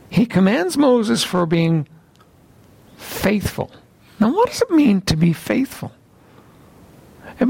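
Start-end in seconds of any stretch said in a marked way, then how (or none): 3.0-3.7 whispered. Real, not acted. Key word of sermon point.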